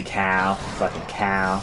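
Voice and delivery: "Cal" drawn out for Kyle, Texas style; Texan pronunciation. Shown as a demonstration. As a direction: say "Cal" slowly with one long flat vowel. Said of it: "if you live in Texas".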